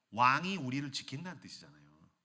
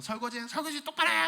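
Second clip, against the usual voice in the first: nagging wife, higher; 11 semitones higher, 4 dB louder than usual. Acted. Wife scolding.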